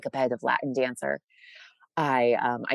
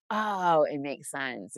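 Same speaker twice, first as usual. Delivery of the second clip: mock realization; 3 semitones higher, much slower than usual. People seeing her art understand at once, mildly acted realization. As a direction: imitate someone suddenly getting it. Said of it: "It's like".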